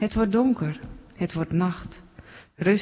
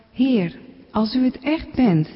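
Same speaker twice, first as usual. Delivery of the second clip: calling out; 5 semitones higher than usual. Acted. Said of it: "Hij roept".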